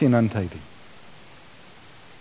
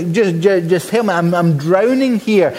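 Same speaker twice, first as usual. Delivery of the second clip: desperate plea; 4 semitones higher than usual. Retold or imitated. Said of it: "he's saying here".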